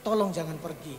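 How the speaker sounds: low, subdued begging; tearful plea, retold. Husband begging his dying wife to stay, subdued tearful plea. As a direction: plead gently, close to tears but holding it. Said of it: "Di situ saya mulai nangis".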